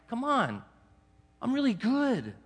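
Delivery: mock boast.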